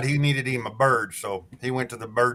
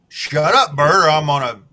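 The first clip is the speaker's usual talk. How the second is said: angry pirate; 3 semitones higher, 7 dB louder than usual. Acted. Pirate yells at bird.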